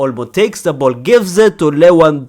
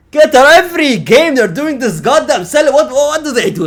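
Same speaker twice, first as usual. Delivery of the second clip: high, louder teasing whine; mock exasperation; 9 semitones higher, 5 dB louder than usual. Real, not acted. Fan teasing Rafinha and Lamine, high teasing whine. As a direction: tease them in a squeaky voice.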